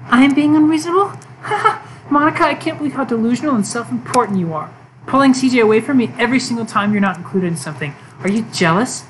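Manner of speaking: lightly voiced, mocking and cold; Yuri turning cruel. Yuri mocks Monika to her face, mild cold sneer. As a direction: sneer at her rival, then go icy.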